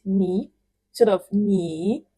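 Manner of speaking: "ni" slowly, rising like a second tone; slow "ni" climbing upward. Shown as a demonstration. Teacher showing the tone change, slow and rising. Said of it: "this ni changes to second tone".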